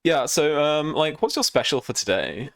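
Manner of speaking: lightly voiced posh hipster. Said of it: "Posh hipster wanker voice".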